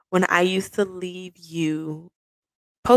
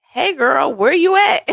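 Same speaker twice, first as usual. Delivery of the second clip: put-on high girly voice; 8 semitones higher, 3 dB louder than usual. Friend's text read in voice.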